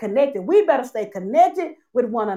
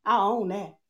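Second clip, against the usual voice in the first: confessional prayer; 2 semitones lower than usual. Acted. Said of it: "we're saying today".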